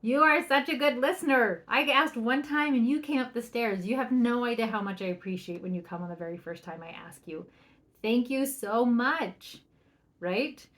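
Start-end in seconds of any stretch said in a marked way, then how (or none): 0.0-9.6 excited praise. Shown as a demonstration. Parent praises kids who came up for dinner, loud and delighted. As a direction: gush over the child. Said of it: "you're like".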